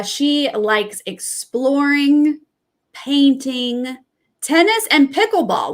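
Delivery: a light put-on Southern accent for Heather's hobbies. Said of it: "talking in my Southern accent for her".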